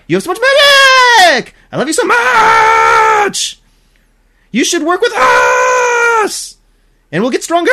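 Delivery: hammed-up anime scream of adoration, voice cracking like crying; tearful screaming anime voice. Character screaming love at the hero, mock crying at full volume. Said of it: "Or, sorry".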